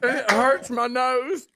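laughing. Real, not acted. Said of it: "I'm laughing so hard".

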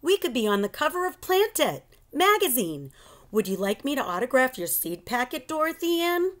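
high, quick show-off tone; boastful kid offering autographs; cocky offer. Acted. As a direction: tease her like a star. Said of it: "Carlos said".

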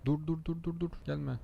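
yelling at the truck ahead to stop; shouting stop. Real, not acted. Gamer yells at truck ahead to stop, urgent shout.

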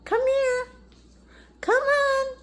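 high, loud dog-calling voice. Real, not acted. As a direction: call her over from across the yard.

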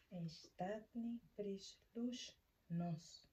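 Estatni Prislushnost sounded out very slowly; phonetic demonstration. Shown as a demonstration. Teacher showing learners the phonetics of the Czech term, slow careful demonstration. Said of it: "Esa es la fonética".

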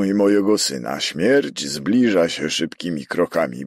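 urgent letter read out loud; reading aloud. A narrator's reading. Prefect reading a threatened man's letter, aloud and urgent. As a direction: read out an alarming appeal, voice lifted. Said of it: "zaczął czytać na głos".

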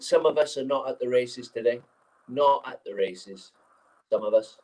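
mock gaffer, drawling the dig; mimicking the manager. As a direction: drag out the dig at one player. Manager's pointed dressing-room jibe.

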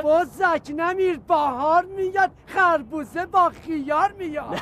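mocking proverb.

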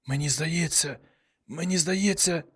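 hoarse, soft and strained, each word scraped out. A narrator's reading. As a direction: force words through a raw new throat. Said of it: "вимовив дуже сипло".

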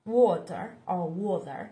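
"water" with an American flapped t; American accent. Shown as a demonstration. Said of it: "theo kiểu Mỹ là water".

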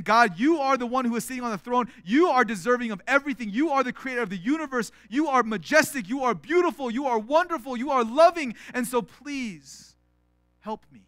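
a hint of rising adoration; worshipful praise. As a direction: lift God up, then ask gently. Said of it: "one is saying".

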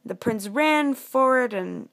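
slow, building storyteller; suspenseful storybook narration. Acted. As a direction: build suspense for children, stretching key words.

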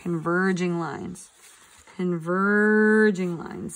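Converging lines said slow and spaced out for the class to echo; slow drilled repeat. Shown as a demonstration. Teacher leading the class chorus, slow and deliberate. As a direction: stretch out Converging lines so kids can say it along. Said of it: "Say it with me".

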